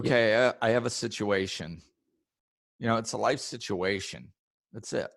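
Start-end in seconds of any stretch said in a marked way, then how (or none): 0.0-1.8 calm. Shown as a demonstration. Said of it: "more peaceful".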